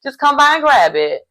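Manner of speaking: high, loud teasing sing-song; taunting ex. Retold or imitated. Jeremy teasing Laura that her stuff is already packed. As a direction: mock-sweetly rub it in. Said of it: "he was like".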